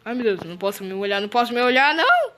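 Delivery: can't bear to look, rising panic; panicked. Real, not acted. Player too scared to look at the screen, panicking.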